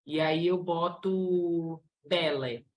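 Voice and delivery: bele dito devagar e marcado; new word bele. Shown as a demonstration. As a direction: apresente bele como palavra nova. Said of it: "Peço pra criança ler bele". (bele lento e acentuado, como exemplo)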